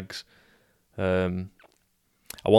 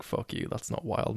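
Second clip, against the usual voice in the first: whispered mock insult; 6 dB quieter than usual. Imagined listener mocking him.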